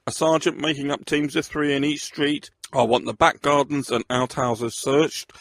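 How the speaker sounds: a superintendent directing a manhunt, loud and commanding; commanding shout. Acted. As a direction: rap out orders to the lads. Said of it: "he barked, full of command".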